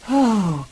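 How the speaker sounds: breathy commercial-style sigh; washed-out dreamy sigh. Retold or imitated. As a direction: mimic a washed-out movie reverie with one sigh. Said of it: "washed out, kind of like".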